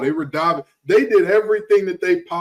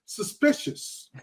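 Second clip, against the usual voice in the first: sly whisper; 4 semitones lower, slower than usual. Real, not acted. Sly aside about absent colleague.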